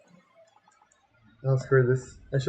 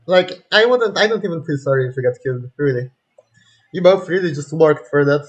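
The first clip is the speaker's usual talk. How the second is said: angry rant; 7 dB louder than usual. Real, not acted. Ranting at characters.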